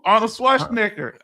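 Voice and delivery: "Schwarzenegger" in a Southern accent. Real, not acted. Trying the action star's name for the co-host, Southern accent. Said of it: "I can't say it in my Southern accent".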